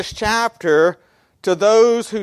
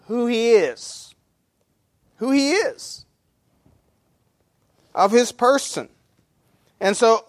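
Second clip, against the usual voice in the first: ordinary talk, nothing marked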